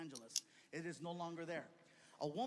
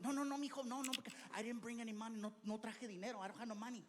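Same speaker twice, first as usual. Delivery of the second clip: worried mom; 5 semitones higher, faster than usual. Retold or imitated. Mom worries about paying.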